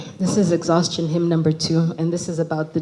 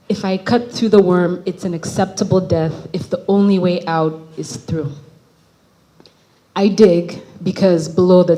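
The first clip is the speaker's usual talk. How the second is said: measured, emphatic spoken-word delivery; poetry reading; 4 dB louder than usual. Acted. Poet reading a poem about digging to an audience, emphatic recital. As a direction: recite firmly, with pauses between lines.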